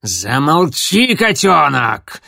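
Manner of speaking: slow, loud bark; barked order. Acted. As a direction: shut the kit up hard. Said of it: "рявкнул коготь".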